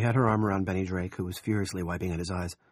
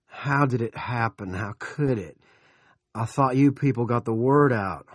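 indignant demand; 3 semitones higher, 6 dB louder than usual. A narrator's reading. Big Jim on the phone about the plane crash, indignant. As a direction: demand an explanation, loudly.

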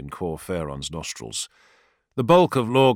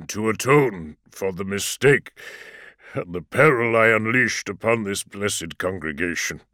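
humble convert. A narrator's reading. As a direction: offer yourself in penance. Exata kneeling, different timbre.

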